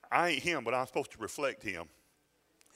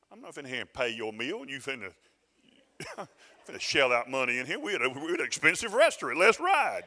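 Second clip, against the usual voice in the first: indignant rant building louder to the end; retold anger; 7 dB louder than usual. Grandfather fed up at an expensive restaurant, retold anger. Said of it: "I'm feeling anger".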